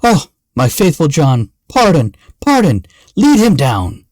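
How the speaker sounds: remorseful king crying out for mercy; anguished cry. A narrator's reading. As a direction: beg forgiveness in a rising outcry. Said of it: "Then cried the king".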